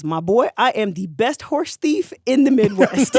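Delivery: slow, puffed-up bragging; lightly voiced pride in the crime; proud boast. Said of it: "says it with pride".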